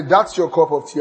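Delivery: lightly warm, offering tone; inviting. Shown as a demonstration. Host showing a cup of tea, mildly inviting. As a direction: offer it kindly. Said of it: "That is inviting".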